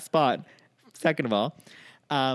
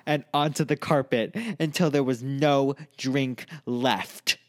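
slow, louder, gloating villain telling; mock villain confession; 3 dB louder than usual. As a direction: savour each drip like a cartoon villain.

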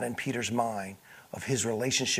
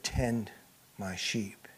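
softer and lower, fading to a whisper; whispered charge; 5 semitones lower, 8 dB quieter, slower than usual. Acted. Jesus charging Peter, a hushed whisper. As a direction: let the command fall to a hush.

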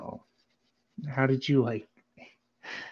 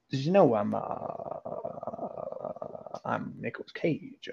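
Nicolas Cage. Acted. Improvising as a method actor for co-host, Nicolas Cage voice. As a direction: stumble along as the actor, trailing off in "uh". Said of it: "so that's pretty good".

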